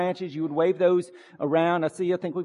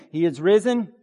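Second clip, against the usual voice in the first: call and response; 4 dB louder than usual. Shown as a demonstration. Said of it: "let's try that again".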